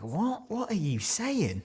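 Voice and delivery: high, hushed disbelief; baffled. Retold or imitated. Retold bafflement at almond milk.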